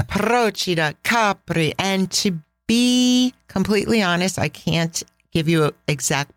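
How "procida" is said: "Procida" said PRO-ci-da, stress on PRO; stress on first syllable. Shown as a demonstration. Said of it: "the emphasis is on the first syllable".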